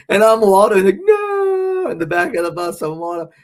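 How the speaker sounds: high, loud laughing talk; cracking up at the joke. Real, not acted. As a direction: giggle through the words.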